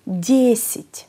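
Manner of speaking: Δέσιτ, strong first syllable, second weakened to "i"; unstressed vowel as i. Shown as a demonstration. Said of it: "είναι χωρίς τόνο και ακούγεται σαν". (Δέσιτ με το άτονο φωνήεν σαν «ι»)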